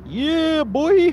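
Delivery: high hype yell; hype shout. Pretend. Hype exclamation.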